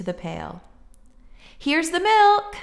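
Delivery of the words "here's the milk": excited shout. A narrator's reading. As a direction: call out proudly with the egg. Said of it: "shouted Jack".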